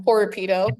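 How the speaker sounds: Horopito with a clear breathy H; Horopito, American style, H voiced; American pronunciation. Shown as a demonstration. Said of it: "in my American accent".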